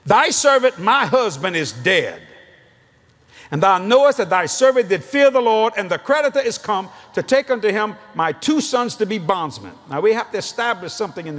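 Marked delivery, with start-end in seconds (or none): 0.1-9.7 scripture reading. Acted. Preacher reads scripture forcefully.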